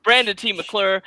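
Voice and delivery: lightly hammed red carpet host; gushing red carpet chatter.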